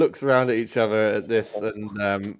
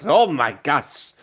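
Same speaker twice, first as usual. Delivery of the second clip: flustered French cook, high and loud; loud, panicky mock French; French accent; 6 semitones higher, 6 dB louder than usual. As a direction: cry out an apology in hammed-up French. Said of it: "he is French".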